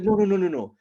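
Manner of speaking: put-on high, fervent accented protest; Ahmed. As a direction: loyal friend getting worked up, foreign accent. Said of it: "like, a passionate friend".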